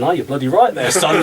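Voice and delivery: grudging admission. Retold or imitated. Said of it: "you can see 'em look at me going".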